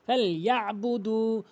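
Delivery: ইয়াবুদু with দু held one alif; slow drawn দু; long du. Shown as a demonstration. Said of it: "এক আলিফ টেনে পড়তে হবে".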